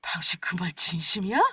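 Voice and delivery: hushed, breathy disbelief; soft unvoiced whisper. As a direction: whisper it as if afraid to believe. Wife doubting husband's offer.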